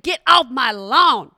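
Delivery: a hammed-up grumpy old neighbor scolding; lightly voiced crotchety old man. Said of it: "I'm crotchety".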